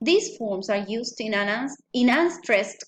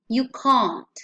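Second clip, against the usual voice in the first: "can't" pressed a touch louder, falling; stress on CAN'T; 4 dB louder than usual. Shown as a demonstration. Teacher repeats the phrase for students, firmly. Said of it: "So the pronunciation would be".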